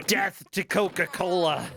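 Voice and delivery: mock-dramatic call; mock proclamation. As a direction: declare it like a playful war slogan. Mock battle cry after a laugh.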